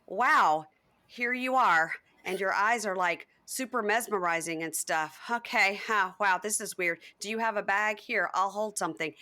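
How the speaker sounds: lightly imitated awkward, stilted delivery; awkward robot. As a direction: retell it with a hint of stiff robot awkwardness. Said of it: "so awkward and sounds like a robot".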